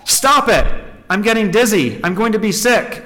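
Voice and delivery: high, urgent read-aloud cry; acted scream without full force; mock scream. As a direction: burst out high, then ease slightly. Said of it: "I screamed".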